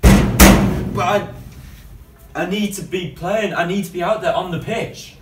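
loud, high and pleading; high desperate pleading. Acted. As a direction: beg loudly, voice pushed high. Player begging to play.

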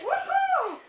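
excited high whoop. Real, not acted. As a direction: cheer like you won. (높은 환호성)

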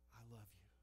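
very soft, barely voiced I love you; soft whisper. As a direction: breathe it like a tender whisper from God. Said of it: "God just whispers into your heart".

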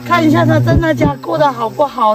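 loud, worried plea; acted loud insistence; too loud. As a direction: raise the voice in anxious pleading. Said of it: "不要那么大声哦".

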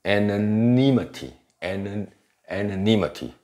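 anonymity with a full eh start and NI stressed; secondary stress. Shown as a demonstration. Teacher models the secondary stress, anonymity with a full first vowel. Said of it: "还有一个次重音".

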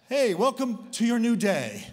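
imitated dad's high, booming morning greeting; loud wake-up call. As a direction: holler it at a sleeper.

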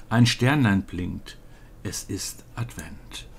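quiet storybook ending, fading to near whisper; poem recitation. Acted. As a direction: let the poem settle gently to a hushed close. Recites the poem's hushed ending.

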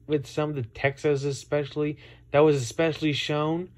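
words running together, slurred; slightly slurred, loose diction; slurred speech. Real, not acted. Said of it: "I'm sorry, I'm slurring my speech here".

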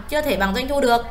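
ordinary talk

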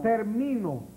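ter-MI-no, weight on MI; "termino" accented on its second syllable; stress on middle syllable. Shown as a demonstration. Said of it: "Termino no lleva acento".

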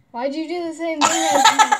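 laughing through the question; giggling as she calls out the copying; laughing accusation. Real, not acted. Friend laughs while accusing her of copying, giggling.

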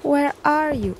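stilted text-to-speech question; Google Translate voice. Pretend. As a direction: speak like translation software, word by word. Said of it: "Como Google Translate".

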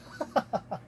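airy mocking chuckle; breathy little laugh as the cat; cat's laugh. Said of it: "The cat just gave off the laugh".

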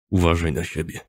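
low, restrained farewell through the teeth. A narrator's reading. Friend saying goodbye in a tight hug, through his teeth. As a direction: force it lightly through gritted teeth. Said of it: "wycedził przez zęby".

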